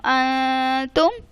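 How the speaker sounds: انتم very slow, the nun hidden through the nose; nasalised recitation. Shown as a demonstration. Teacher repeats the right reading of انتم for students. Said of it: "اسے میں کیسے پڑھ رہی ہوں".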